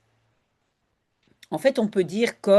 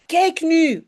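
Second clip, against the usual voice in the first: a mild call, a bit higher and louder; 7 semitones higher, 4 dB louder than usual. A narrator's reading. Janneke calls to Jip about the snow, mild call. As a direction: call out to show the mess. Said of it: "roept Janneke".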